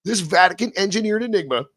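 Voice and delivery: slow, hushed storyteller voice; dramatic narration. Acted. Host reading the Chronovisor topic in slow, hushed dramatic narration. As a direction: set the eerie Vatican scene.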